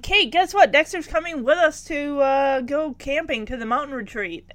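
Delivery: high-pitched retold excitement; mock enthusiasm. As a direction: imitate an eager announcement, easing off. Retelling family's eager announcement.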